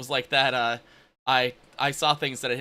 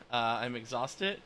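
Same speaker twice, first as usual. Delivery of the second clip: tired; 3 semitones lower, 5 dB quieter than usual. Real, not acted. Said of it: "I am tired".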